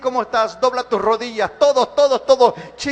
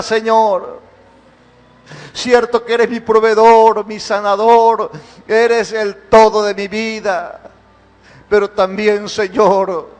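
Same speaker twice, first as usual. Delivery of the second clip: fervent prayer; 3 semitones lower than usual. Acted. Pastor praying over the church in an impassioned worship service. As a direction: pour it out to God, swelling then sinking low.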